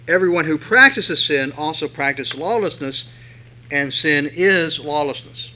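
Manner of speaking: loud, deliberate reading of the verse; scripture reading. Acted. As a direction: proclaim the verse. Reads verse four aloud.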